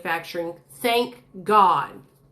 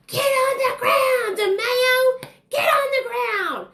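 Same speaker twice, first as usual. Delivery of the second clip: police shouting; 14 semitones higher, slower than usual. Retold or imitated. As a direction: bark it like an arresting officer. Police swarm and tackle her.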